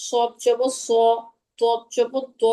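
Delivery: heavy rounded Arabic consonants; slow, full-mouthed letter drill on সদ জবর স; rounded lips. Shown as a demonstration. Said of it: "মুখগুলো গোল করে".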